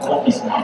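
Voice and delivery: again not Oxnard with accent; wrong Oxnard. Shown as a demonstration. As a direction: Oxnard the way it was not allowed. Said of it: "you have to say perfect".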